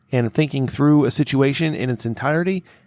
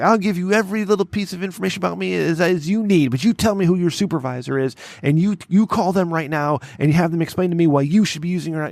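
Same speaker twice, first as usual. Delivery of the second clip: retold yelling; 5 semitones higher than usual. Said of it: "I started yelling at this lady".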